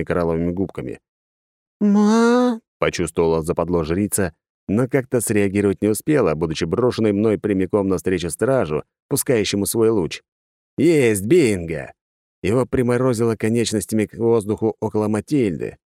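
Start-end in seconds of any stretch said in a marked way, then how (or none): 1.8-2.6 high startled yelp; startled squeak. Acted. 10.8-11.9 triumphant exclaim. Acted.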